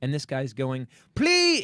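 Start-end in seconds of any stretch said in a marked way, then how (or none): 1.1-1.6 high, loud cry, acted out; imitated screaming. Traveler imitating a man ranting in a packed airport, screaming. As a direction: yell it high like an airport ranter. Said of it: "he's screaming at the top of his lungs".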